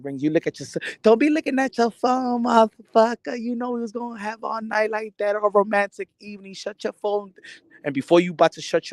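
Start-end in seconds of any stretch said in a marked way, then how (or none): 1.0-7.3 scolding wife. Retold or imitated. Wife scolding husband for checking his phone, mock nagging. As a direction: chew him out for the phone.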